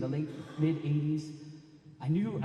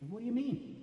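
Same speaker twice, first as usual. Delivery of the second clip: puzzled protest; 10 semitones higher, 4 dB quieter than usual. Retold or imitated. Narrator puzzled by bandmate's answer.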